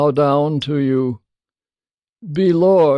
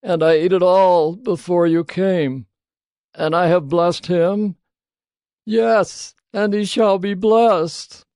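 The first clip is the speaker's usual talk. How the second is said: put-on shaken old father; 6 semitones higher, 3 dB louder than usual. A narrator's reading. Isaac trembled very violently.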